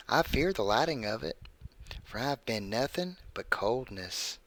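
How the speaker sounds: creepy story read in a put-on voice; measured narration with swooping pitch and pauses; Burt's Bees. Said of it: "I'm reading this in my Burt's Bees voice".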